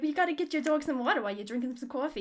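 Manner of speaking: put-on joking New York accent. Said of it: "we kept making jokes like".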